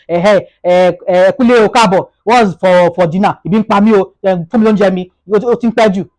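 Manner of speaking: loud, impatient nagging for food; rude demand. Retold or imitated. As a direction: hammer him with hungry complaints. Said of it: "Not when you say".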